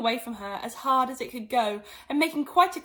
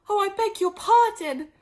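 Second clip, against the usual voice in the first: higher, louder quick sorry; hasty apology; 11 semitones higher, 7 dB louder than usual. Acted. Alice hastily apologizing to the mouse. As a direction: blurt the apology out. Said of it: "cried Alice hastily".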